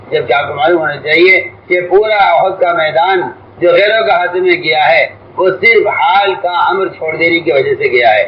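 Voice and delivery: ordinary talk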